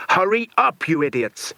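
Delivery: high, loud, panicked yell at his men; frantic yell. A narrator's reading. Villain yelling frantically at his idiot henchmen. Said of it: "he yelled frantically".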